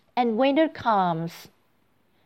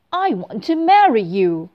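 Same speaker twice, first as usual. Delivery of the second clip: ugly toad voice; 2 semitones higher, 7 dB louder than usual. Acted. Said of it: "The ugly toad".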